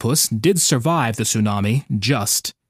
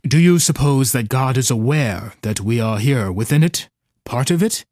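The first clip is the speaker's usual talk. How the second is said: gurgling tentacle alien; 3 semitones lower than usual. Acted. Octopus asks shyly.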